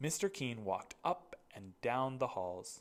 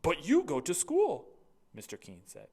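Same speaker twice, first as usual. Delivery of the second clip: headmaster; 7 dB louder than usual. Acted. Mister Keene's voice.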